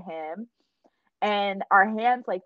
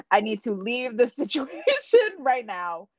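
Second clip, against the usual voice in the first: laughing overwhelmed plea; 3 semitones higher than usual. Retold or imitated. Retells overwhelmed thought, laughing midway.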